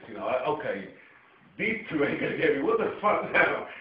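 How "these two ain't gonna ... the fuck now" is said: heated retelling. Retold or imitated. Retelling a heated street confrontation.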